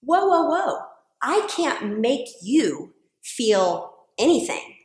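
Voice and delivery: a touch of a calm husband settling her down; mild imitation of a calm husband; calm correcting. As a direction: retell him gently pulling her up short. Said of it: "And he would say".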